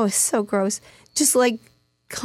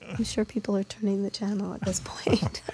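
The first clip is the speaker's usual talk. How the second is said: whispering; 7 dB quieter than usual. Real, not acted. Aside about listeners changing channel.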